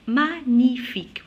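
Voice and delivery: "magnifique" in careful syllables, no g; "magnifique" without sounding the g; silent g. Shown as a demonstration. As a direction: say "magnifique" as ma-ni-fique. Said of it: "Je prononce pas la lettre G".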